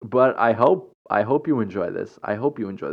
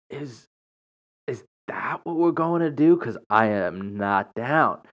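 alarmed inner question; 2 semitones higher than usual. Retold or imitated. Retelling a suspicious massage invite, alarmed inner voice. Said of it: "In my head".

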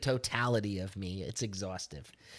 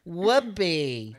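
drawn-out whoopee with the joy taken out; joyless imitation; 4 semitones higher, 3 dB louder than usual. Mimicking the joyless recorded interjection, drawn-out and unenthused. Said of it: "taking all the joy out of it".

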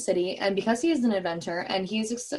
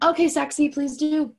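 flirty; 7 semitones higher, 4 dB louder than usual. Acted. Hero flirts back, acted out.

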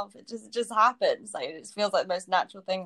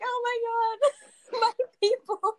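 high, slow, mock-emotional cry; hammed-up tearful joy up high; overjoyed; 14 semitones higher, slower than usual. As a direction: cry out high as if moved to tears. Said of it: "And I got to the States and I was like".

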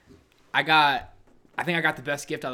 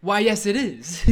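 lightly hammed-up, higher and louder; mock proud reply; 7 semitones higher, 8 dB louder than usual. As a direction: play it like a smug, delighted yes. Mock-proud answer for friend.

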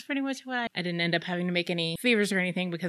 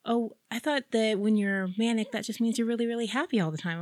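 lightly voiced sister, higher-pitched; naive sister; 6 semitones higher than usual. Sister misunderstanding what manic means, naive.

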